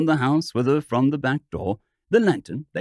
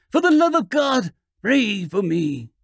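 wailing plea; 7 semitones higher, 3 dB louder than usual. A narrator's reading. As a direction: beg for prayer, half wailing, half singing. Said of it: "a crying voice, half wailing, half singing".

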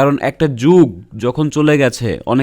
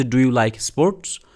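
examiner question; 2 semitones lower, much slower than usual. Retold or imitated. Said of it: "যেমন বললো যে".

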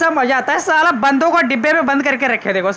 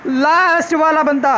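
slow, stretched-out words; drawn-out suspense; 2 semitones higher, slower than usual. Real, not acted. Player hunting the last hidden enemy, drawn-out suspense. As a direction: draw each word out teasingly.

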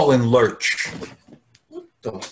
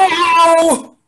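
high confused hello; 12 semitones higher, 5 dB louder than usual. Acted. Old dad on bad video call.

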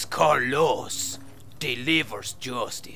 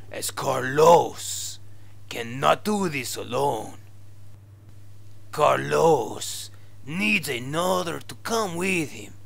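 fake Spanish accent. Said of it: "your fake Spanish accent".

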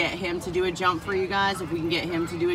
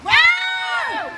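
surprised; 5 dB louder than usual. Real, not acted. Seeing a big croc jump.

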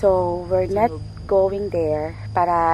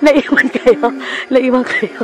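loud, higher call; 6 semitones higher, 12 dB louder than usual. Real, not acted. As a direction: shout it to the group. Calling out to those left behind.

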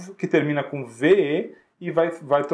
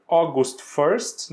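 drawn-out August first; very slow model date; much slower than usual. Shown as a demonstration. Teacher modeling a date, very slowly. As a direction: stretch it for students to copy. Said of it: "another example".

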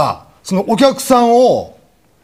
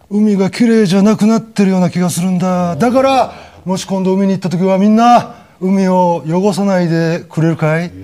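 turtle host voice. Retold or imitated. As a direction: answer the girl kindly as the turtle. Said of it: "声とかめっちゃおもろい".

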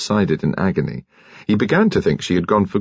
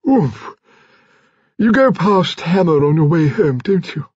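high-pitched lady of the manor; pry for gossip in a high character voice; imperious old lady; 10 semitones higher than usual. A narrator's reading.

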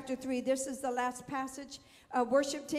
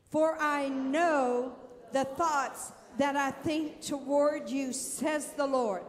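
bold; 3 dB louder, slower than usual. Shown as a demonstration. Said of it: "So say it with some boldness".

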